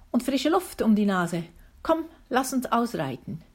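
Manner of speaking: a touch of restless annoyance; grumpy. Acted. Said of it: "erklärte sie missmutig".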